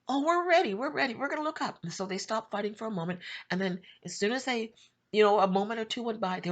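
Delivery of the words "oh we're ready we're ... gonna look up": dismissive reply. Retold or imitated. Group brushes off warning.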